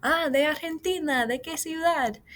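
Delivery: high, quick cover-up follow-up; smooth over a gaffe; covering himself. Acted. Alejandro covering his mistake with Daniela, high and eager. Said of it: "he's trying to cover himself".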